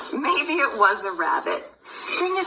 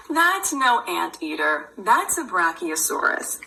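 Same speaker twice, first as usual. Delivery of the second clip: a hint of a gruff know-it-all; mock deep rebuttal; 6 semitones lower than usual. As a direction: contradict in a gruff pretend voice. Mock contradiction in book.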